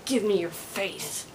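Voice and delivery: lightly put-on slow, menacing movie line; a mild mock battle growl, slowly; Optimus Prime. Overstimulated vlogger quoting a movie robot, mock menace. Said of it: "like Optimus Prime in Revenge of the Fallen".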